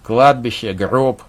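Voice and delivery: scornful. Acted. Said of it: "презрительно сказал Вадим".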